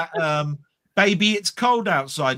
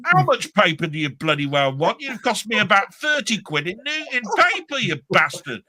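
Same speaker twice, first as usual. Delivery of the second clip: higher exasperated complaint; a hint of a fed-up father; exasperated dad; 3 semitones higher than usual. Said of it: "it was going".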